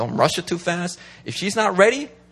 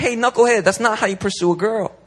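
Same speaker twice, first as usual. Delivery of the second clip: fatherly pastoral voice; 4 semitones higher than usual. Retold or imitated. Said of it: "You need a pastoral voice to be like".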